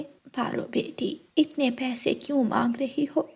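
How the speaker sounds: quiet gentle elder voice; smooth it over kindly; soft mother-in-law. Acted. Mother gently scolding daughter and calming groom, soft.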